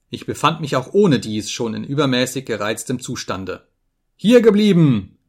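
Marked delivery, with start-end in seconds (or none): 4.2-5.2 loud, high furious command; sudden raging outburst, pitched high; raving shout. A narrator's reading. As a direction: yell it like a madman. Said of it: "schrie ich wie ein Rasender".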